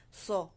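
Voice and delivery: "So" short, with a heavy, rounded S; thick SO. Shown as a demonstration. Teacher repeats the heavy sound for students, thick SO. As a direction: make the "So" thick, cut it short. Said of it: "Makapal siya".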